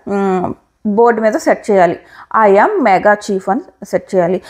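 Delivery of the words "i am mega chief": "I am mega chief" said slowly, word by word, with a gap after "am"; a slow demo of the phrase "I am mega chief" for viewers; spelled out slowly. Shown as a demonstration. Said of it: "space very important".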